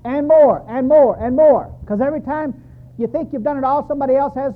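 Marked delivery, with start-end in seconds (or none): 0.1-1.7 desperate prayer. Retold or imitated. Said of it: "And I'm saying".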